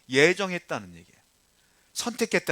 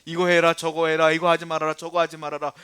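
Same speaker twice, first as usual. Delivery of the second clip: louder rattled-off list of orders; nagging; 7 dB louder than usual. Acted. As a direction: imitate nagging, command after command. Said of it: "다 잔소리".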